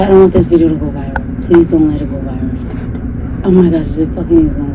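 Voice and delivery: whispered pleading; anxious whisper. Real, not acted. Anxious plea after the taping.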